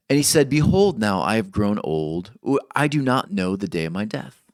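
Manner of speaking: measured, solemn reading of scripture. Acted. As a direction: read the verses with weight. Reads Genesis aloud.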